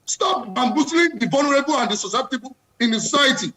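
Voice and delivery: real fed-up passion, rising in pitch; impassioned. Real, not acted. Panelist defending the vulnerable as time runs out, impassioned. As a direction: hammer out the demands. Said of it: "I can tell from the passion in your voice".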